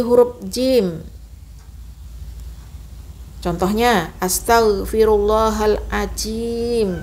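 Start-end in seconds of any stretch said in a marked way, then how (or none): 4.2-6.9 astaghfirullahaladzim with a jim sound, slow; wrong jim. Shown as a demonstration. Teacher shows the jim mistake. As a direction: say the zim like jim. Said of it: "Jangan ya".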